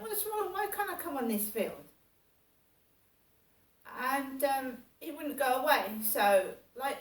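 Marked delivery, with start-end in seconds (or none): 0.0-1.8 put-on timid young self. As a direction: plead like a shy twenty-year-old.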